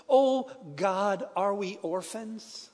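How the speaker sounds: a pastor praying through tears, voice a little slow; tearful prayer. Retold or imitated. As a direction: plead with God as if close to crying. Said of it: "in his own tears".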